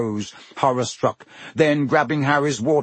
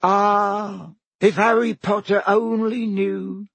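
high, slow, moaning elf voice; groaning elf; 9 semitones higher, slower than usual. Acted. Elf lamenting to Harry, high groan. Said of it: "Dobby groaned".

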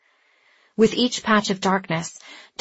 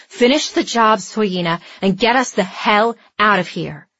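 urgent demand; 2 semitones higher, 5 dB louder than usual. A narrator's reading. Wounded Andy demands escape.

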